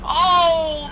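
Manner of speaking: startled oh. Real, not acted. Feeling the impact.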